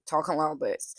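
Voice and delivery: a light Southern US drawl on talking like this; southern accent. Shown as a demonstration. Showing where Remick's accent starts, in a Southern accent. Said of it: "goes slowly from very southern".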